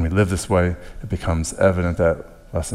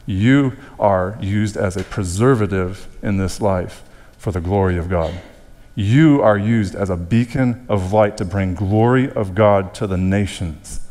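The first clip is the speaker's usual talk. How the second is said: each "You" stretched and punched; stress on YOU. Shown as a demonstration. Preacher applying salt and light to congregation, stress on "You". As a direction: lean hard on "You" as each sentence opens. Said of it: "Jesus is emphasizing the fact that you".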